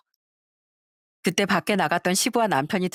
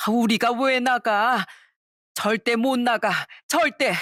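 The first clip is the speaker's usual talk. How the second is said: 버티며 소리치는 시어머니; 4 semitones higher, slower than usual. Acted. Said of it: "소리를 고래고래 질렀습니다".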